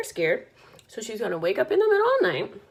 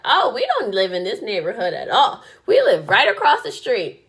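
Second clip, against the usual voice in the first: blurting daughter; 6 dB louder than usual. Retold or imitated. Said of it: "She was like".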